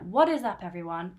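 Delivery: mock YouTuber hello, punchy start; YouTuber greeting. Host mocking YouTubers' catchphrase, lightly voiced. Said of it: "that's what YouTubers say".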